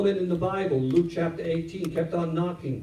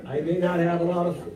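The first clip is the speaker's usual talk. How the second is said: defiant widow. Retold or imitated. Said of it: "her attitude was like".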